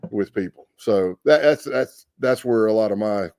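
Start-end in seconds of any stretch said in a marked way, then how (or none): 0.1-0.7 high, drawn-out exasperated question; retold exasperation. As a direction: stretch each word in disbelief, pitched up. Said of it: "it made me so angry".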